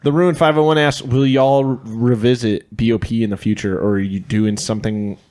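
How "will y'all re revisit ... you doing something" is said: put-on Texas accent. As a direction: read it like a Texan. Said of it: "like, a Texas accent?".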